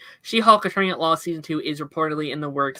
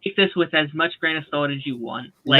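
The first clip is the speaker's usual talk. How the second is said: radio voice; 2 semitones lower, 3 dB louder than usual. Real, not acted. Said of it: "Now you sound like a radio host".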